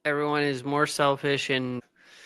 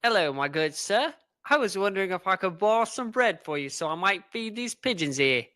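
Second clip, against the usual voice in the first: put-on British accent. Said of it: "Why in the heck are you British?".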